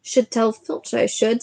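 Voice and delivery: slow, mock-innocent poltergeist; a slow put-on piety, lightly voiced; saintly voice. Peeves pretending to be good to the students, mock-saintly. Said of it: "in a saintly voice".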